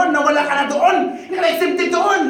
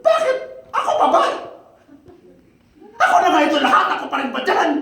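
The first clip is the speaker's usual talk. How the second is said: mock whining with laughter; 3 semitones higher, much faster than usual. Preacher mimicking a griping believer, laughing mock whine. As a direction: laugh through a hammed-up gripe. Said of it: "sabihin mo".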